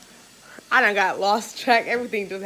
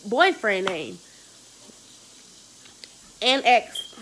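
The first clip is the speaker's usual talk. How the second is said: whisper; much slower than usual. Real, not acted. Whispered secret name.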